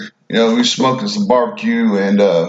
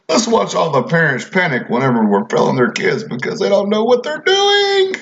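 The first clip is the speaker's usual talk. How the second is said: mock gleeful officials, last words jumping much higher; 5 semitones higher than usual. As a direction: sneer at the officials with a high mocking whine. Mocking education officials' attitude.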